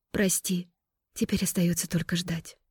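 guilty sister murmuring an apology; quiet remorse. Acted. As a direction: say it under your breath.

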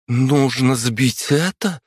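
high, slow astonished murmur; astonished girl. A narrator's reading. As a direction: gasp it out in disbelief. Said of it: "изумлённо пробормотала невысокая девчушка".

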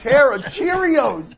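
put-on British accent. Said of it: "my father's British accent".

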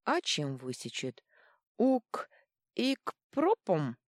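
tipsy giggling with a hiccup; giggly drunk. Acted. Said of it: "пьяно хихикнул Дрюня".

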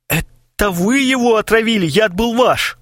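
high frantic blame; panicked accusation. Acted. Kharchenko blames them in a high panic. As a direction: throw the blame back in panic.

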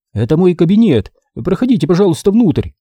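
high, sugary fawning invitation; unctuous voice. A narrator's reading. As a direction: ooze false sweetness. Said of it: "елейным голоском пригласил карлик".

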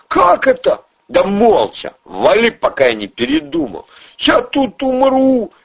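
high, jittery small-time crook; squeaky nervous crook voice; Ryzhy's voice. Acted. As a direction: pitch way up and talk fast like a nervous hustler. Ryzhy despairs.

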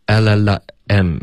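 "L L M" as el-la-la, then a separate em; imitated mispronunciation. Teacher repeating a student's attempt, "L L M" broken before em. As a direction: break "L L M" before the final em. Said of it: "你模仿这个，你的老师的发音".

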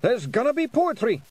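high, loud pixie alarm; alarmed warning. Acted. Rob Anybody warning Tiffany about the poetry, high alarmed shout. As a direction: warn them all that disaster is coming.

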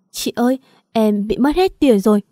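a touch of sobbing, voice catching as she speaks; half-crying, lightly played; tearful whimper. Girl phones her friend after losing all her savings, tearful. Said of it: "khó nghe vì mếu máo".

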